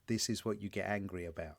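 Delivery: a hint of a voice in your head egging you on; inner voice. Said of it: "the other part of me is like".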